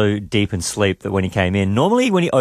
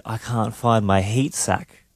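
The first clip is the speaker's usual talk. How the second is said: imitated child complaint; 3 dB quieter, slower than usual. Retold toddler complaining to dad.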